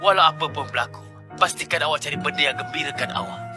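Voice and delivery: soft, fading goodbye; quiet farewell. Acted. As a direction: let it fade to nothing. Farewell before surrender.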